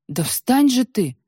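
shouting. A narrator's reading. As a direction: shout at her to get up. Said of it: "закричала Варвара". (громкий крик, требовательно)

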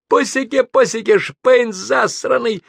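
high, loud, deranged yelling; sudden yell. A narrator's reading. Man in a fit yelling at the cabin, wild shout. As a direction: burst out yelling across the whole cabin. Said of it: "заорал он вдруг на весь салон".

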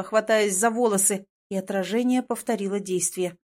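plain reading voice

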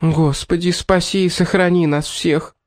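high, panicky plea; near panic. A narrator's reading. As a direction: cry out to heaven in alarm. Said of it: "уже почти паникующая".

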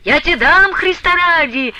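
father yelling back at his pleading daughter; shouting. A narrator's reading. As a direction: throw her words back at her. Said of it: "кричал Потап Максимыч".

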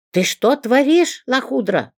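high loud slowed screech. A narrator's reading. Woman screams at Zinka who tossed her frying pan, high and loud. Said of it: "заверещала женщина".

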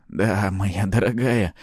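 slow, smug chuckle in the voice; smirking. A narrator's reading. Hero gloating at the surprised succubus, smirking. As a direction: draw it out with a smirk. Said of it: "усмехнулся я".

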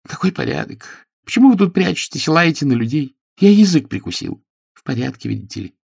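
high, fast angry rant; angry lord. A narrator's reading. Angry lord scolds hiding Pickering, high and fast. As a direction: scold him, words tumbling out. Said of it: "рассердился лорд".

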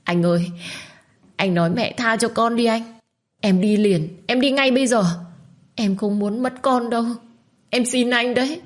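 high tearful begging; a desperate young wife wailing to her husband; crying loudly. Acted. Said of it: "Minh liền chộp lấy tay của Long và khóc lớn".

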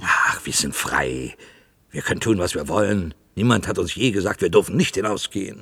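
defiant loud. Acted. Loudly insisting to a companion that they're free. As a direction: push back hard, proclaiming freedom.

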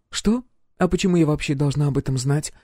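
high, put-on innocent surprise; feigned surprise. Roxy fakes surprise at the captain's question, high put-on innocence. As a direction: play innocent with a high startled what. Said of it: "Очень натурально удивилась она".

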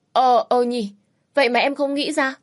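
light up at the idea; sudden realisation. Acted. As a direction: younger sister thrilled by the plan, eager. Sister struck by a good idea.

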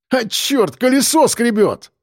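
high, strained cry; alarmed shout. A narrator's reading. Driver hearing the wheel scrape, alarmed shout. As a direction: call out cursing in alarm. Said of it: "прокричал он".

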